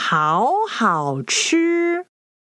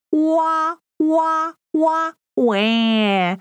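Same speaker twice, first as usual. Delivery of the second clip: playful mock wails, evenly spaced; demonstrated crying sound; 3 semitones higher than usual. Shown as a demonstration. Teacher demonstrates crying in Mandarin, playful mock cry. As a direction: show a pretend "wah-wah" cry. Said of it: "the sound of crying in Mandarin".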